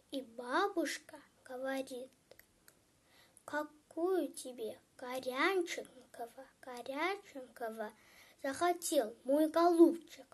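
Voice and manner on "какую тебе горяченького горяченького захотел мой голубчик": soft, doting grandmother; tender granny. Acted. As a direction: coo it softly to a darling grandchild. Granny softened by please.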